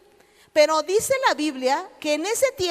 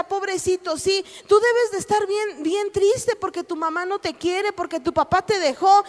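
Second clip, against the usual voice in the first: syrupy, higher mock sympathy; mock pity; 4 semitones higher than usual. Imitating the comforting words we wish to hear, mock pity. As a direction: coddle the listener with fake pity. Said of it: "lo que queremos oír".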